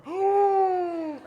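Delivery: high, loud panicked gasp; acted-out high gasp of fright; terrified gasp. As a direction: suck in air in terror. Acting out terror in the back seat.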